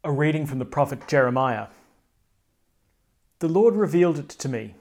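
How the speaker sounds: formal lector reading; scripture reading. Acted. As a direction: read it out to the congregation. Proclaims the first reading.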